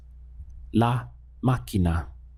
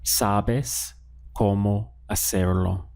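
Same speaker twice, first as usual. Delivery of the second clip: "Sabes cómo hacerlo" as a statement, without a questioning lift at the end; statement intonation; slower than usual. Shown as a demonstration. Spanish teacher models the plain sentence for learners, statement intonation. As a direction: say "Sabes cómo hacerlo" evenly, as stating a fact. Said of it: "saying it as a statement".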